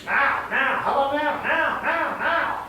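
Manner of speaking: a restless dog begging again and again; impatient dog. Retold or imitated. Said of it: "used to".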